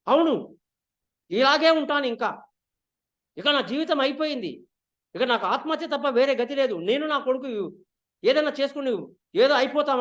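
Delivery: a mild mock shout, defiant; loud defiant cry. Queen defiantly shouting back at her husband. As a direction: fling the words back at him. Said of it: "అన్నట్టుగా గట్టిగా అరుస్తుంది".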